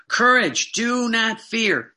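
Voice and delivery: loud, slow command, rising high; commanding call. Retold or imitated. Preacher voicing Jesus, commanding his apostles with courage. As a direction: call out courage to the frightened flock.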